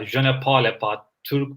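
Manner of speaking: hesitant schoolbook French; broken French. Retold or imitated. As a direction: try the French line, unsure. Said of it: "but I don't know how to pronounce it".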